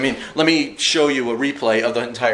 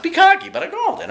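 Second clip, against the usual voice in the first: cocky brag; 4 dB louder than usual. Real, not acted. Bragging about his correct pick.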